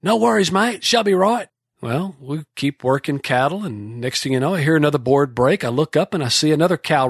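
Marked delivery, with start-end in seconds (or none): 0.0-1.5 put-on relaxed Kiwi accent, no worries; New Zealand accent. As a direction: toss it off in a Kiwi accent, unbothered. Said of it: "Laurie's reply, New Zealand mate".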